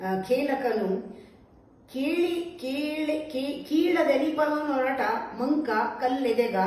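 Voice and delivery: measured, declaimed poem reading; verse recitation. Acted. Teacher reciting a Mankutimma verse for listeners, verse recitation.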